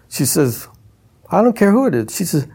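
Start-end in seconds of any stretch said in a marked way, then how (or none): 1.3-2.1 stubborn guard. Retold or imitated. Guard refusing entry.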